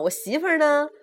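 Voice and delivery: high, loud demand; shouted question, pitched high; old mother shouting. A narrator's reading. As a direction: holler it like an indignant mother. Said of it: "老太太喊".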